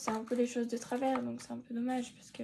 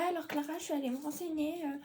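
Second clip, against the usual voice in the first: imitating the teacher; 4 semitones higher than usual. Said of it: "Là, il dit, ouais".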